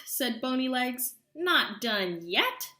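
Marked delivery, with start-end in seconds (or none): 1.4-2.7 impatient witch. Acted.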